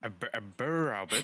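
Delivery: a troll chuckling through the word; puzzled laughing repeat. A narrator's reading. Troll repeating hobbit, laughing through it.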